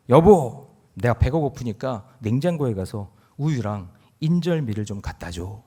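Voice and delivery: lightly voiced old husband calling his wife; a hint of a hungry grandpa; grandpa asking wife. Grandpa asks his wife to fetch milk and rice cake, lightly voiced. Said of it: "어떤 할아버지가".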